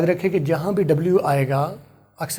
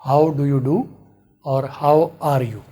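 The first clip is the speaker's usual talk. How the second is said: Pakistani English; 2 semitones lower, much slower than usual. Shown as a demonstration. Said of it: "अगर आप पाकिस्तानी हैं ... इसी तरह से बोलते हैं".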